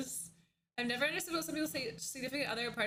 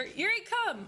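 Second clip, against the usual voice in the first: calling the dog; 7 semitones higher, 3 dB louder than usual. Real, not acted.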